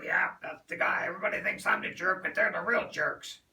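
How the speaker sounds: rough-edged chain smoker's rasp; whiskey voice. Retold or imitated. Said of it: "got a whiskey voice, chain smoker".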